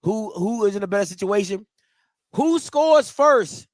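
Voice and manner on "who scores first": drawn out. Real, not acted. Host asks prediction question.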